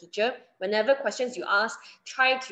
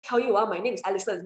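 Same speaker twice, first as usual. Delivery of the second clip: overeager student; faster than usual. Shown as a demonstration. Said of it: "No need to be like that".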